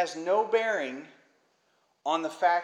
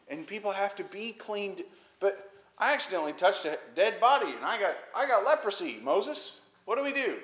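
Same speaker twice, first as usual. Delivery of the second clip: lightly voiced, higher-pitched appeal; worried petitioners; 5 semitones higher than usual. Unclean men appealing to Moses, mildly pleading. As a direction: imitate people bringing Moses their problem. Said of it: "some unclean guys come up to Moses".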